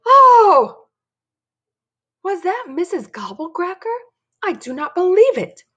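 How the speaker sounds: put-on high, wicked old lady voice; wicked old woman. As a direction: cackle it like an old witch.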